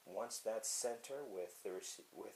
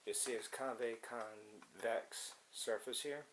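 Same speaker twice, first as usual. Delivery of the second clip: slow, drawn-out sarcastic wording; slower than usual. Real, not acted. Showing viewers a surface, sarcastic. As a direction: draw the word out sarcastically. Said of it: "I say it sarcastically".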